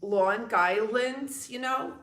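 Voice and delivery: slow, drawn-out Long Island accent on "Long Island"; a light Long Island accent, slowed right down. Shown as a demonstration. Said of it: "I also know how to do the Long Island".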